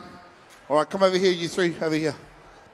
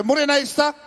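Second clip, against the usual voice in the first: higher, brighter, with energy; energetic greeting; 6 semitones higher, faster than usual. Shown as a demonstration. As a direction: pump up the greeting. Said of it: "Bit of energy, bit of energy".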